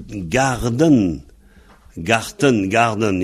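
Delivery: garden and Garten, the T said hard in Garten; German and English forms. Shown as a demonstration. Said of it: "ça vient de".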